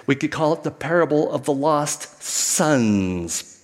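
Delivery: slow, and mark the s of "sons"; we could call it the parable of the lost "sons", with "sons" pressed; stress on sons. Shown as a demonstration. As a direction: lean on "sons" to show the plural.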